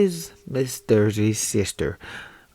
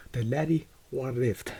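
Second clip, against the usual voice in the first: Scottish accent; 6 dB quieter than usual. Shown as a demonstration. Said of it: "I'm gonna try to do a, a Scottish accent".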